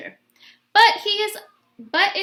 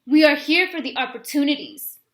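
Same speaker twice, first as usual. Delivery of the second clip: imitating father; 6 dB louder than usual. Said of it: "Dolores imitates him".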